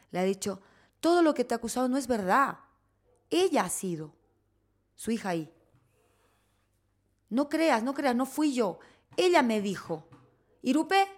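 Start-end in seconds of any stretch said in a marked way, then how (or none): 1.0-10.1 imitating the ex-wife. Husband's ex-wife voiced accusing. 10.6-11.1 mock call to the girl. Ex-wife calling the girl.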